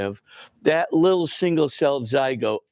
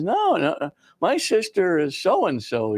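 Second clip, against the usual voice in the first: higher-pitched retold protest; child's objection; 6 semitones higher than usual. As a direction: lightly voice a puzzled boy correcting someone.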